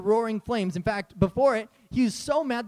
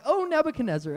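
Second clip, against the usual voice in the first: eye-rolling tone; 7 semitones higher, faster than usual. Retold or imitated. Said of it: "they're probably rolling their eyes".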